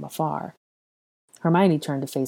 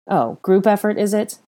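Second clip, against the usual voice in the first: mocking, higher and louder lilt; raised-pitch sarcastic question; quipping; 6 semitones higher, 6 dB louder than usual. A narrator's reading. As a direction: toss it off as a snide quip. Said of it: "Draco quipped".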